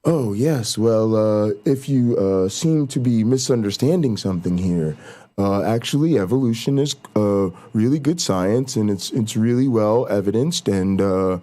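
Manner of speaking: lightly voiced polite correction, unhurried; calm, collected. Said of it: "pull up real calm, cool, collected".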